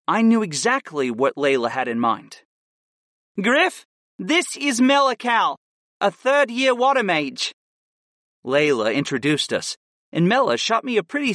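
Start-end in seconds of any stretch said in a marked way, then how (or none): 3.4-7.5 lightly voiced sly young woman; a hint of a scheming grin. A narrator's reading. Layla introducing.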